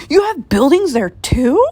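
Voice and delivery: breathless unvoiced whisper of wonder; astonished whisper. A narrator's reading. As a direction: gasp it out in amazement. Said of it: "Horton gasped".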